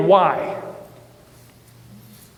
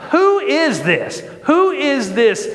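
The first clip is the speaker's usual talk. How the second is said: slow, raised, incredulous question; rhetorical challenge; 5 semitones higher, slower than usual. Retold or imitated. Preacher voicing David's scorn for Goliath, rhetorical challenge. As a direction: ask it slowly and pointedly, pitched up. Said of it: "he rhetorically asks".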